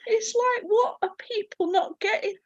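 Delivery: high, laughing through tears; half laugh, half sob; crying laugh. Real, not acted. Insisting she is clear, laughing through tears. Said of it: "I'm sat here in bits".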